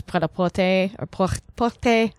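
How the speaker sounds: "prêt-à-porter" and "porter" said in a rusty, Americanized French accent; fumbled French. Shown as a demonstration. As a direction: stumble on "por-", then retry "porter". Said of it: "I can't pronounce French".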